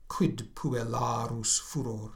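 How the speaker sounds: slow and measured, stressing the iambs; slow recitation. Shown as a demonstration. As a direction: savour each syllable of the verse. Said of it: "I'll try and, uh, accent them".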